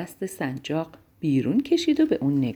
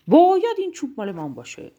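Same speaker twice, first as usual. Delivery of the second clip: high, loud storybook shout; ringing cry of demand; 7 semitones higher, 5 dB louder than usual. A narrator's reading. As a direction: launch it high and loud, then fall away. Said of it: "فریاد زد".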